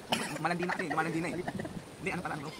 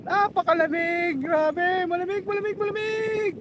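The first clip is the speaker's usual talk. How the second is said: in ice cold water; 10 semitones higher than usual. Real, not acted.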